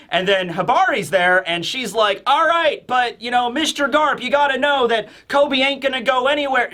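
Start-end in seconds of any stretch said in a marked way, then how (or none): 2.3-6.7 higher-pitched Hibari-style country dialect; playful mock country dialect; imitated regional dialect. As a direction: lightly put on a regional dialect. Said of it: "Hibari talks in a, like, Southwestern".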